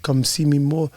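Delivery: soft, lightly imitated tearful pleading; mock choked-up uncle; uncle near tears. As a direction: imitate an emotional uncle begging gently. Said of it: "he sounds like he's about to cry".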